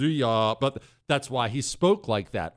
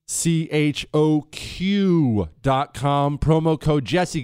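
slow ad read; 3 dB louder, much slower than usual. Acted. Reading the sponsor ad.

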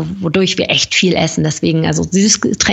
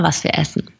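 whispering; 3 semitones lower, 5 dB quieter than usual. Real, not acted. Unvoiced whispered aside.

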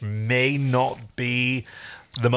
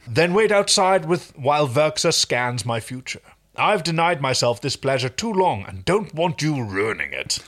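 haughty royal command; 3 semitones higher than usual. Acted. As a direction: command him like a spoiled royal. Rigel ordering Crichton outside.

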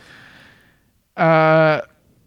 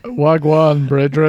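louder mock Jamaican Rasta greeting; hammed-up Rasta accent greeting; 5 dB louder, slower than usual. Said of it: "do it in a Rasta voice".

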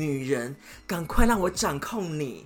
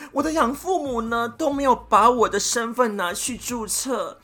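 higher, louder, wheedling excuse; lying excuse; 5 semitones higher, 3 dB louder than usual. Retold or imitated. Boyfriend caught lying about his age, pleading his orphan excuse. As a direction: sell the sob story with a mock sincere pitch.

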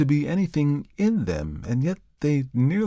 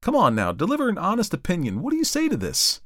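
shouted; 10 semitones higher than usual. A narrator's reading. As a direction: rouse him, excited and insistent.

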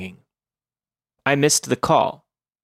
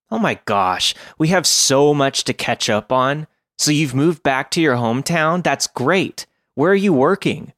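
put-on high, gushing valley girl chatter; bubbly, rapid-fire girly voice; chirpy valley girl; 3 semitones higher than usual. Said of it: "a chirpy valley girl".

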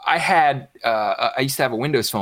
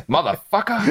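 laughing curse; 9 semitones higher than usual. Retold or imitated. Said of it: "And then it's just".

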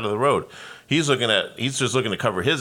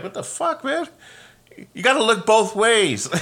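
much higher, strained mock yell; higher indignant retold shout; retold yell at driver; 14 semitones higher, 3 dB louder than usual. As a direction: shout at the driver who nearly hit him. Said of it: "And I'm just like".

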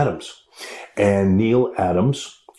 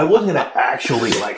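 laughing; 4 semitones higher than usual. Real, not acted. Laughing at his own revenge plan.

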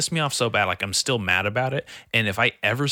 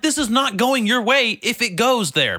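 higher, louder warning to the heckler; threatening warning; 10 semitones higher, 4 dB louder than usual. Retold or imitated. Comic retells warning the heckler, loud and higher. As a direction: warn him off, half-joking. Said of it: "I was like".

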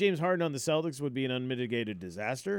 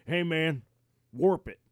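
hick golfer voice; 4 semitones higher, 6 dB louder, slower than usual. Retold or imitated. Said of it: "one of the guys goes".

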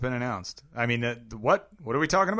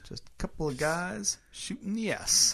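soft, higher confiding voice; hushed; 8 semitones higher, 6 dB quieter than usual. Pretend. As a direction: murmur it like a secret. Mock intimate hush.

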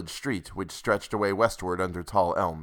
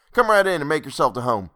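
pushy landlord demanding rent; 6 semitones higher, 4 dB louder than usual. Acted. Landlord greets guest, calls Ed.

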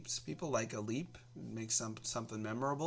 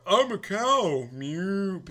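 loud, slow, raised cow impression; 6 semitones higher, 9 dB louder, much slower than usual. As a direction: moo it out slowly like a cow. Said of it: "If I were to say".

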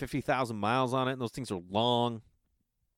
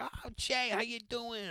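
high, airy imitation of a famous director; David Lynch impression; 12 semitones higher, 5 dB quieter, slower than usual. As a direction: chirp it up high like a friendly eccentric director. Quoting David Lynch greeting him.

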